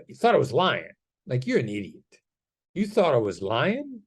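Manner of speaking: "You thought I was lying?" pushed, incredulous and accusing. Shown as a demonstration. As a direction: throw it at them like an accusation. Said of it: "That's an accusation".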